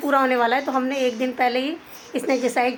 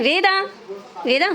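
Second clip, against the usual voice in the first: calling out; 9 semitones higher than usual. Real, not acted. Mother calling her daughter.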